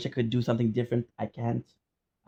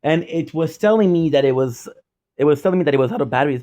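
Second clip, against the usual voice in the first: loud, fast, worked-up explanation; agitated rant; 6 dB louder than usual. Real, not acted. Streamer explaining to viewers why footage died, loud fast rant. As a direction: rush it out in frustration.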